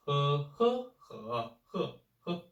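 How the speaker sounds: he, he, he, he, he run through the tones in turn. Shown as a demonstration. Teacher running through all the tones on he. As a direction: step he through each tone.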